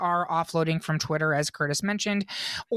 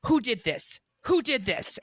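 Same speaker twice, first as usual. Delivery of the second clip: mock outrage; 4 semitones higher than usual. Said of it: "she's like".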